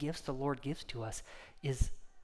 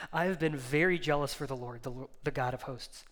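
loud, high outburst building to an accusing shout; Elijah's angry, embittered tirade; bitter anger; 5 semitones higher, 6 dB louder than usual. Acted. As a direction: rage bitterly, climbing to a yell at the end. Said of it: "hear the bitterness and the anger".

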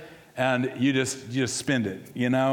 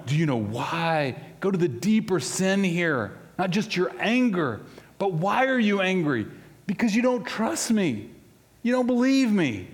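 a hint of the Holy Spirit, pressing; 5 semitones higher than usual. Holy Spirit confronting the pastor about his anger, building. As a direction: press harder and higher with each line. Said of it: "he's coming after me going".

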